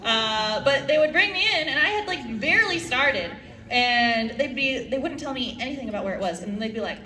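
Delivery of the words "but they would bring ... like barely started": ordinary delivery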